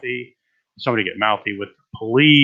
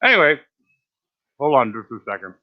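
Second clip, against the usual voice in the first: talking through a bite; words round a mouthful of food; mouth full. Real, not acted. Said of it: "I just bit into it".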